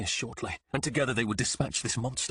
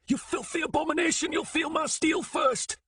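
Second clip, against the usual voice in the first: furious threat. Acted. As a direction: spit each word at the beast. Threatening the monster.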